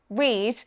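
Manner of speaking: "read" with the R pronounced at the start; non-rhotic speaker still sounding the first R in "read"; sounded R. Shown as a demonstration. Teacher gives example of R at word start, "read" with R sounded. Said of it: "we do pronounce the letter R".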